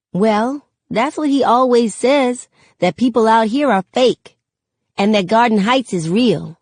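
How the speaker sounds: put-on innocent boy explaining himself; little boy. Sakani telling Mama what Daddy says, light child voice.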